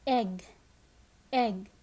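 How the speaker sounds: "egg" said on its own with short eh; phonics-teacher "egg" with eh vowel. Shown as a demonstration. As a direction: model "egg" briefly, word by word. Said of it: "It is the short sound".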